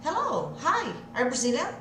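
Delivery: quick, words run together; tudo grudado. Shown as a demonstration. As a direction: glue the words into one burst. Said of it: "Vai grudar tudo e soltar numa só". (rápido, tudo grudado)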